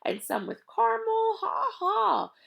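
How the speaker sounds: high, whispery giggling list; laughing. Acted. Mac teases the thieves with candy, laughing high. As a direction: chuckle through each item.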